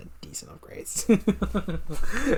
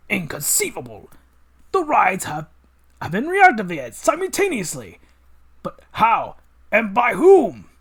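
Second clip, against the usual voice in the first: villain voice; 3 semitones higher, 5 dB louder than usual. Acted. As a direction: savour every word like a mad scientist.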